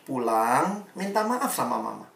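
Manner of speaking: soft, measured counsel; softly spoken instruction; calm advice. Retold or imitated. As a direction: advise quietly and simply, unhurried by emotion. Pastor calmly advising an upset teen.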